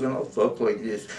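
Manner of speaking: put-on light New York Jewish accent. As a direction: slip into a mild Jewish accent. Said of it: "unless we come back to the Jews".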